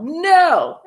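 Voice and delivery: high, loud, drawn-out NO; yelled refusal. A narrator's reading. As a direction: bellow No at the cashier. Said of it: "the father yelled".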